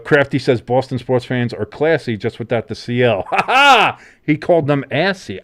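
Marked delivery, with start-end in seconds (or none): 3.3-4.0 loud, high burst of laughter; sudden hearty ha-ha; delighted laugh. Real, not acted. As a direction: laugh out loud as the joke lands. Getting a listener's wordplay joke.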